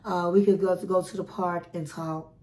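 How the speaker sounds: drained and serious, barely above a murmur; a quiet, sad no. Retold or imitated. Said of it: "she was looking real serious".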